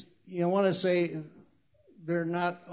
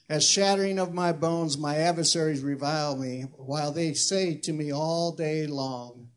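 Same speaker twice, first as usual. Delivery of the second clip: scripture reading. Acted. Preacher reads the psalmist's complaint to God, mildly declaimed. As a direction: read the lament aloud with measured emphasis.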